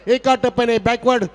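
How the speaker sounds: high, loud boundary call; excited commentary. Real, not acted. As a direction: shout the boundary with joy.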